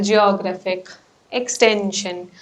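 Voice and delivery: geoGRAPHic, exTENsion, weight on the next-to-last syllable; second-to-last syllable stress. Shown as a demonstration. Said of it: "second to last syllable".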